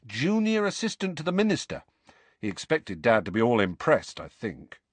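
lightly voiced, incredulous boy; animated Ron. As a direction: recount the family row with relish.

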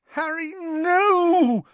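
high, slow anguished cry; moaned plea. A narrator's reading. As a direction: drag it out, begging him to stop. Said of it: "moaned Hermione".

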